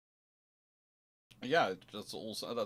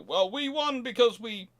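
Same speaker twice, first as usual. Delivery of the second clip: much higher and louder, boasting the win; mock triumphant gloat; smug victor; 11 semitones higher, 6 dB louder than usual. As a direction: crow over the enemy like a gloating admiral. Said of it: "one side can go".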